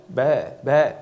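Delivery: a light mock bleat of sheep in the fog. Preacher imitating the sheep answering in the mist, light mock bleat.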